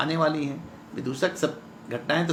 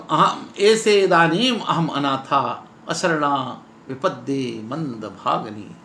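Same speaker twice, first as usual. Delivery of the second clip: lightly acted despairing heroine; mock lament; slower than usual. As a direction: slowly call out to absent parents, then sink. Heroine's lament while making a noose.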